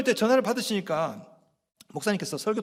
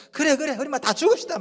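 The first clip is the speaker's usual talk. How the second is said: higher-pitched, comic exasperation; mock defiant retort; 6 semitones higher than usual. Thomas answering Jesus's holy words, mock defiant. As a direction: throw it back as Thomas, hammed-up.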